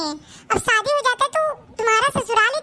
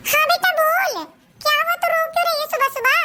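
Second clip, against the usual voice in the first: higher, concerned mother's voice; worried mother; 5 semitones higher than usual. Acted. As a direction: play the anxious mom on the line. Mother answers the phone. (चिंतित माँ की आवाज़)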